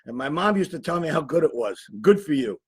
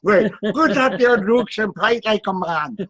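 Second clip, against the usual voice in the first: put-on Irish accent. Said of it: "I can't even do the accent".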